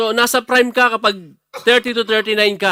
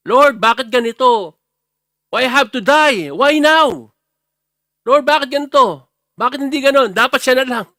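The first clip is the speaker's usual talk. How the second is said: complaining prayer; 5 semitones higher, 4 dB louder than usual. Pretend. Imagined complaining prayer to God.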